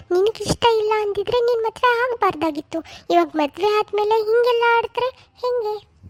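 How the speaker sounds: lightly voiced older mother, coaxing; a hint of a fussing village mother-in-law; mother-in-law soothing the new bride.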